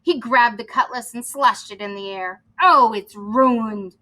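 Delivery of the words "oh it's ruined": slow, drawn-out lament; a touch of moaning over the loss; mild moan. Acted. Captain mourning his cutlass, slow mild moan. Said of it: "He moaned".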